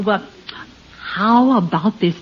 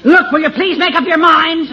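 exasperated plea; mildly angry, fed-up appeal; getting mad; 3 semitones higher than usual. Acted. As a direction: salesman losing his patience. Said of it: "why are you getting mad".

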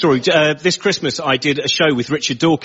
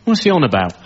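plain, lightly baffled grumble; imitated ordinary punter, lost; puzzled club audience. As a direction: mutual bafflement in a club crowd. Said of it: "just a normal club audience".

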